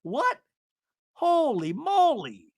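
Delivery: very high, goofy mock shock; high-pitched hammed-up disbelief, drawn out at the end; Seth imitation. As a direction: squeal it in cartoonish astonishment. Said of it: "And Seth is just like".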